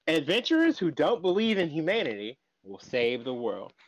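grand announcer-style title read; title announcement. Pretend. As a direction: announce the show's title with ceremony. Reading out show title grandly.

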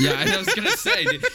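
high laughing voice; laughing through the words. Real, not acted. Laughing at sarcastic reply.

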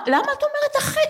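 high, laughing disbelief; giggling tease; laughing question. Real, not acted. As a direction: laugh through the question at her friend. Teasing friend about her age.

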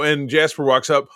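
normal talking voice

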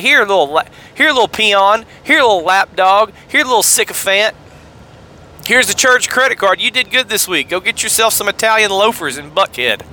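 mock generous senior pastor; condescending boss. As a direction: talk down to the lapdog. Pastor mocking an underling.

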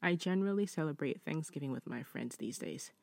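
measured read-aloud voice, lifting the start of each sentence; deliberate, well-paced reading of a written story. Acted. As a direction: read the letter out clearly, phrase by phrase. Reads listener's story.

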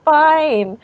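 drawn-out, exaggerated dismissal; Janice. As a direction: imitate a mom waving off a crisis. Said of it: "Janice was like".

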